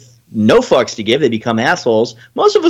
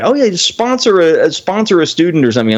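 mocking request; 3 semitones higher than usual. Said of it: "or like".

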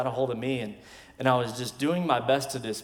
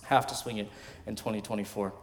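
lower, softer repeat of "Have to swing it in twenty twenty-four"; murmured repeat for emphasis; quiet echo; 4 semitones lower, 7 dB quieter than usual. Real, not acted.

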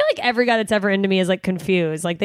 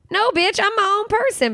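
defiant retort; 12 semitones higher than usual. Pretend. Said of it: "can't you go, like".

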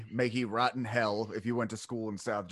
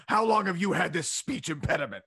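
mocking teacher; 4 semitones higher, 3 dB louder than usual. Mean teacher addressing lisping pupil.

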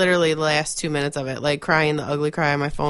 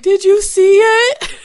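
high, loud, slow wailing question; imitating mom sobbing; 11 dB louder, slower than usual. Mom sobbing on the phone about the show. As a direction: wail it like a weepy mother. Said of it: "And she's like".

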